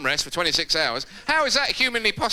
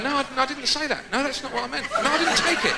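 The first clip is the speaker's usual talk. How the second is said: flustered denial; 6 semitones higher than usual. Retold or imitated. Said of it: "Years of going".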